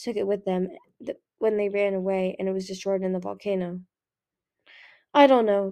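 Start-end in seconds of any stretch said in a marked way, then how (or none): 5.1-5.7 strained, catching in the throat; words half choked off. A narrator's reading. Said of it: "in a half-choked voice".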